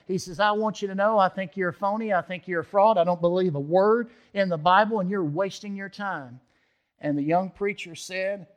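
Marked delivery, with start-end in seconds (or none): 0.4-6.4 loud, scornful, higher-pitched challenge; scornful outburst. Retold or imitated. Old Bert scorning the new preacher, loud and contemptuous. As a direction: throw the insult at him like a dare.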